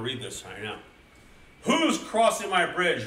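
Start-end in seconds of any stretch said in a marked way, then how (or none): 1.6-3.0 loud, high, drawn-out challenge; troll's roar. A narrator's reading. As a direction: roar it slowly like a storybook troll. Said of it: "roared the big hairy troll".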